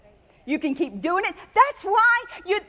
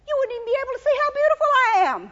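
joke; 3 semitones higher, much faster than usual. Acted. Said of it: "It was a joke".

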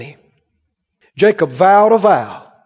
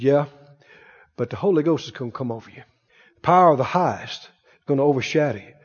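low angel; 8 semitones lower, 7 dB quieter than usual. Acted.

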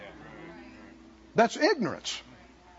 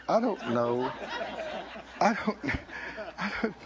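mock moaning; 4 semitones lower, 4 dB quieter than usual. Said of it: "And go".

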